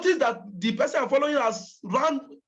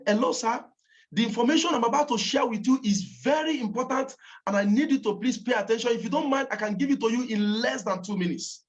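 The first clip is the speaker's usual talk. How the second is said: earnest phone pitch with weight on "very important"; serious, emphatic. Shown as a demonstration. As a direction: insist politely and seriously. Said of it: "Say it with every seriousness".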